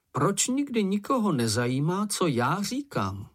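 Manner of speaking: despairing. A narrator's reading. Ferko complains that nobody cares what he says, despairing. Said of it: "zeptal se Ferko zoufale".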